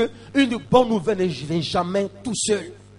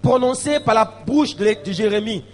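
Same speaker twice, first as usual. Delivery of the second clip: raised, ringing scripture reading; preached scripture reading; 4 semitones higher, 9 dB louder than usual. Acted. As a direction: proclaim the verse to the congregation. Reads scripture aloud at preaching force.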